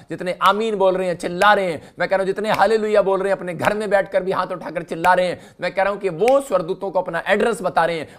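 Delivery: loud, forceful sermon declaration; rallying preaching. Real, not acted. Preacher rallies the congregation.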